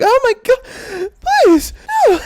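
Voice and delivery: shrieking high and loud in terror; retold panicked scream. Burned by spitting oil, he shrieks in panic. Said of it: "I was just screaming at it".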